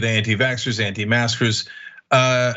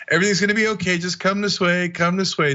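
lightly higher, silky coaxing voice; smooth-talking kidnapper; 6 semitones higher, faster than usual. Acted. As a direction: lure them in gently. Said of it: "It's so smooth".

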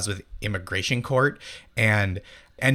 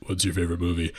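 low, deadpan question; imitated deadpan, dropped in pitch; John Benjamin deadpan; 5 semitones lower, much faster than usual. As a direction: ask it low and dry, imitating a deadpan comic. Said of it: "like, totally deadpan".

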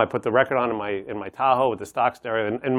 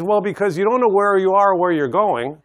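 higher voice, giggles breaking into the words; laughing through the punchline; 7 semitones higher, 5 dB louder than usual. Real, not acted. Storyteller cracking up at his own joke's punchline, laughing. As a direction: fight back laughter while delivering the joke's last line.

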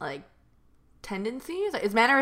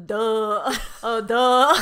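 imitated "duh" sounds; 4 dB louder, much slower than usual. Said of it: "Helen goes".

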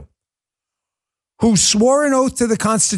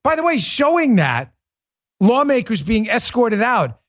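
ordinary talk

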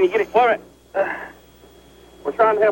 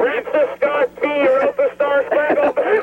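shouting answers; 6 semitones higher, slower than usual. Real, not acted. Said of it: "I'm gonna keep screaming".

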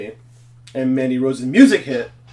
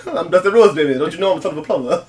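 Dusty Rhodes impression; 3 semitones higher, 3 dB louder, much faster than usual. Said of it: "I love doing Dusty Rhodes".

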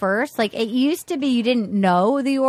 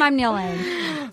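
Neil Lane impression; 4 dB quieter, much slower than usual. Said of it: "I hear one more time".

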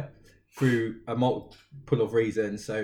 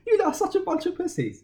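mocking scorn; faster than usual. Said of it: "And I'm like".

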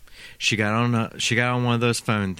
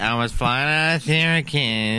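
lisping stab at a New York accent; laboured New York accent; 4 dB louder than usual. Shown as a demonstration. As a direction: overdo a New York accent, slightly lisped. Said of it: "do the New York accent".

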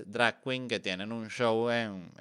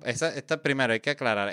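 ordinary talk

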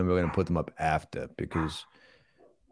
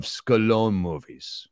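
deliberate movie tough guy explaining himself; plodding, self-satisfied star impression; Sylvester Stallone.

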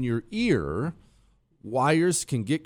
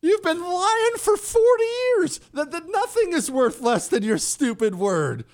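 exasperated outburst; 14 semitones higher than usual. Real, not acted. Host mocking, exasperated outburst.

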